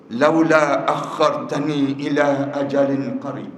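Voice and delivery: slow, chanted Arabic recitation; Quranic recitation. Acted. Preacher recites the king's plea in Arabic, slow and chanted. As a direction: intone the verse slowly and reverently.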